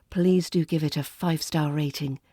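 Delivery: usual speaking voice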